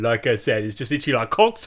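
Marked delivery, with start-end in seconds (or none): 1.3-1.7 higher-pitched caricature of an Australian woman; mock Australian woman. Podcaster mimicking the Australian woman, mock outburst. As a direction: send up an Australian reality-show contestant. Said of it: "'cause the Australian woman".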